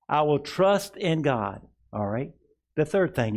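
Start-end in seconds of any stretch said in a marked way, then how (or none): 0.1-1.7 slow, weighty words for the church to echo; slow declaration to repeat. Shown as a demonstration. Pastor leading the congregation, slow and deliberate. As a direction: lay each word down slowly. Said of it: "why we're saying it".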